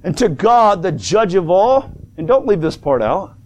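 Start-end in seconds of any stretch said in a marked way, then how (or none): 0.0-1.9 measured, declaimed Bible verse; scripture reading. Real, not acted. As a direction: read it out grandly, phrase by phrase with pauses. Reads scripture aloud to congregation.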